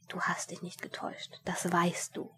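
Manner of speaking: an unvoiced inner whisper. Inner voice whispering to Mumm, barely audible. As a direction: breathe it like a voice inside his head. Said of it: "eine Stimme in ihm flüsterte".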